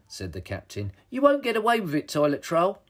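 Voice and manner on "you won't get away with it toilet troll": defiant hero. A narrator's reading. Hero defies the villain.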